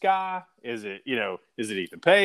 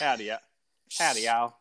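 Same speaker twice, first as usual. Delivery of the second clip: bad cowboy accent; 3 semitones lower than usual. Host greeting as a cowboy wrestler, badly faked cowboy accent. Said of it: "trying to sound as cowboy as I could".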